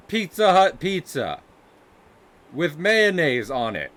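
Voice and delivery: hammed-up bland Midwestern American; stereotypical white American. Streamer mocking American pizza tastes, stereotypical Midwestern American voice. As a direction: play a mayo-loving American caricature. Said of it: "this is the American stereotype right here".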